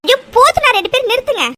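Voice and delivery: grandmother shouting at the two to stop; angry shout. Acted. Grandmother stops the quarrel.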